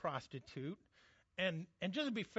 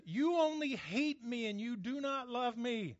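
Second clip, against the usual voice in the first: mock weeping wife; 6 semitones higher than usual. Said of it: "she's crying over him".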